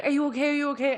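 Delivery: high-pitched mock panic, mildly alarmed; imitating terrified friend. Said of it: "Carlotta was terrified".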